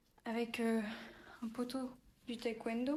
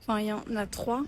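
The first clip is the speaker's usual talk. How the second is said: shouting over wind; 5 dB louder, faster than usual. Real, not acted. Counting dogs outdoors.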